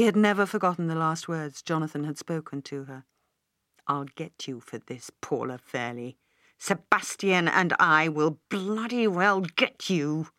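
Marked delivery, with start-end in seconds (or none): 3.9-10.3 a hint of a stage villain, slow and dragged; mild mock menace, not a real scream; retold villain's threat. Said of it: "he had screamed".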